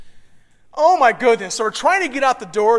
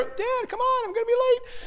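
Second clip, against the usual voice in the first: impatient son; 12 semitones higher, 4 dB quieter than usual. Retold or imitated. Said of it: "he's, like, waiting there".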